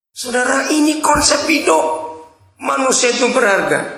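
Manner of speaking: a hint of pulpit fervour; preaching.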